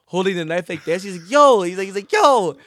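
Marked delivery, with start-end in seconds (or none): 1.3-1.6 high, loud yelling yo; hammed-up panicked brother; imitating a brother yelling; mock alarmed shout. 2.1-2.6 high, loud yelling yo; hammed-up panicked brother; imitating a brother yelling; mock alarmed shout.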